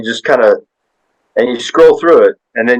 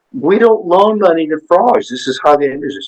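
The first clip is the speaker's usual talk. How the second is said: indignant teller; 7 semitones higher than usual. Retold or imitated. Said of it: "And she's like".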